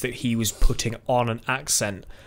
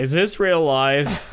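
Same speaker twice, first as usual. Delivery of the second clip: David at the dentist; 2 semitones higher, 3 dB louder, much slower than usual. Retold or imitated. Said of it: "I'm like the David at the dentist".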